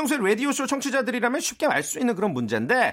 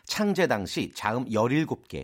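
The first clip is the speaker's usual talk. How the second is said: quiz master reading; 7 semitones lower, 4 dB quieter than usual. Acted. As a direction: pose the true-or-false question deliberately. Quiz master reads the question.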